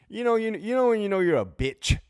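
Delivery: worked-up rant about being stuck in the doghouse; excited rant. Real, not acted. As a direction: blurt it out, half laughing.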